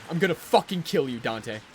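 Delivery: loud, half-joking rage; frustrated threat. Real, not acted. Player threatening Dante after another mistake, loudly fed up. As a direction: snap it out through frustration.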